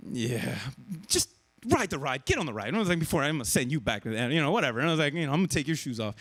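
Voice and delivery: a low half-joking warning; mock stern dad.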